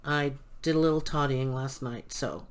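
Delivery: dry throat after coughing; parched, needs water; dehydrated. Real, not acted. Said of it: "I'm dehydrated".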